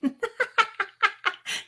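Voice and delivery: high burst of giggles; laughing. Real, not acted. Host amused by a viewer's comment, high laughter.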